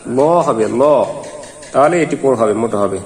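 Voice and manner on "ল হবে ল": ল drawn out with a thick L, not a thin লা; heavy long la. Shown as a demonstration. Teacher corrects লা into a heavy ল. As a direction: lengthen ল, full and heavy. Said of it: "উচ্চারণটি কিন্তু লা হবে না".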